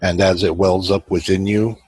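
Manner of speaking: measured meditation guide, long pauses between phrases; even, unhurried meditation voice; guided meditation. Acted. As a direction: guide listeners inward, leaving space after each phrase.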